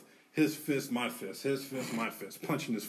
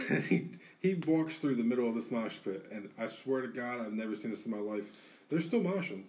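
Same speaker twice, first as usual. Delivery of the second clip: ordinary talk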